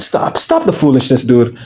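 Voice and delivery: usual speaking voice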